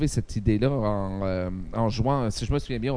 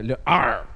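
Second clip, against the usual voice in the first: pirate arr; 3 dB louder than usual. Shown as a demonstration. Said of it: "il y a aussi".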